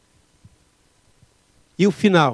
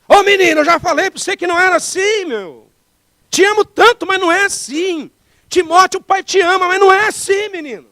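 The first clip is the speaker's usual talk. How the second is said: put-on high, loud exasperated scolding of a child; scolding parent; 11 semitones higher, 5 dB louder than usual. Shown as a demonstration. Father scolding son Timóteo the wrong way, loud and high. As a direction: yell at the boy like a fed-up father. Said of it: "Você quer ver uma maneira errada de falar?".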